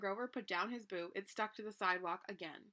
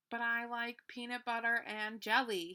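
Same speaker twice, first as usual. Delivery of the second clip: wailing; 2 semitones higher, 4 dB louder than usual. Acted. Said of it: "he wailed".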